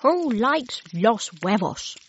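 a hint of a kind grandmother calling to breakfast; Abuela's voice.

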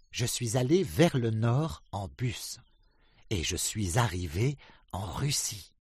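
high, loud proud duck voice; Drake the duck. A narrator's reading. Drake tells the ducks of France, high and loud. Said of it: "said Drake".

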